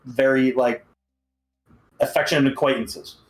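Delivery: a hint of overly formal rejection; mock-verbose politeness. Turning down a suitor's advances in jest, mock-formal. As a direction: let them down with stiff, wordy courtesy. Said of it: "I'm trying to talk verbose right now".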